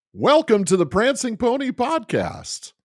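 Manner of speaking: squeaky high greeting; slow, high and loud; high-pitched voice. Acted. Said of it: "the high-pitched voice".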